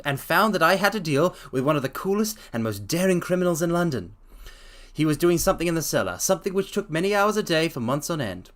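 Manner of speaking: reading a story aloud, lightly voiced Holmes. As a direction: read the detective's explanation steadily. Reads Holmes's explanation aloud.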